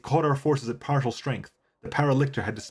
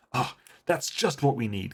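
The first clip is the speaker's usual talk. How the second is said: sarcastic; slower than usual. Shown as a demonstration. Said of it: "that's kind of what Anivia would say".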